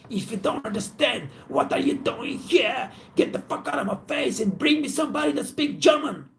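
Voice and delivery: high-pitched imitation of an irate guest; retold high, strained rant at the waiter; mock angry yelling. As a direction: yell it high like an outraged diner, without full volume. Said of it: "And he started yelling".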